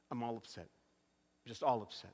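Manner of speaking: retold upset. Retold upset hairstylist, low and soft.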